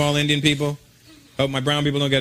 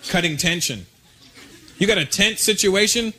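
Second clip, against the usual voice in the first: ordinary delivery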